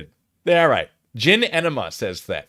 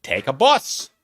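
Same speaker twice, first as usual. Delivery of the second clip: put-on Australian accent, swooping pitch; lecturing in broad pretend Australian. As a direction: explain it in a mock Aussie accent. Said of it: "I'm losing the accent".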